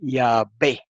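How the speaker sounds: "Yahvé" as ee-a-BÉ, set off by a pause; Samaritan pronunciation. Shown as a demonstration. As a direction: sound out "Yahvé" with a b. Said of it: "lo pronunciaban".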